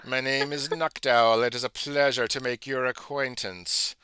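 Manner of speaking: slow, formal owl speaking with dignity; a lightly voiced stately owl, slow and courteous.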